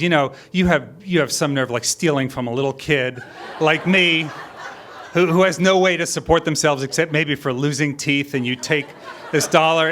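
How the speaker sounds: retelling a kid's indignant rant, mildly voiced; a touch of a wronged child scolding; mock vicious kid. Son scolding his mother over a missing dollar, mock outrage. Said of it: "he gets really vicious".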